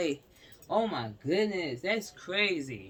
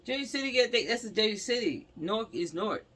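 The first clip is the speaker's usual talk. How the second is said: heated rant; 6 semitones higher, 4 dB louder than usual. Real, not acted. Exasperated rant.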